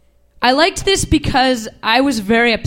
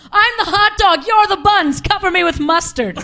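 much higher, lightly voiced toddler; imitating toddler; 8 semitones higher than usual. Toddler lying between nanny's legs, lightly voiced child. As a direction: chirp it like a playful little kid. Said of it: "she looked up at me and she said".

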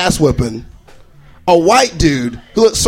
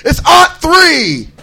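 higher, slow and drawn out; old-timey voice; 8 semitones higher, 3 dB louder, much slower than usual. Retold or imitated. Old-timer telling the year, high and slow.

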